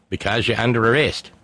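level-voiced Aussie cop; lightly voiced Australian officer; mock Australian police officer. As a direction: state it plainly in a put-on Australian accent. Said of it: "police officer".

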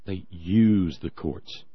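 "use" drawn out slowly and leaned on; slow, pointed emphasis on the word "use"; stress on use. Shown as a demonstration. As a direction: dwell on "use" as the loaded word. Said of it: "They're using it".

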